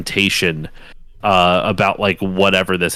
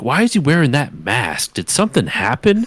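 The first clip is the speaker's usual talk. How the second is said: mock bafflement; 4 semitones higher than usual. Thawed man asks about a mask, mock baffled. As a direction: pitch climbing into a puzzled question.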